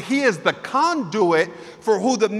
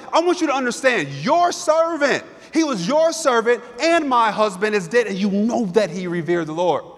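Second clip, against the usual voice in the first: hint of a widow pleading her case, pitched up; a little bit mad. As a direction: insist on it, lightly voiced wounded anger. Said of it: "she's a little bit mad".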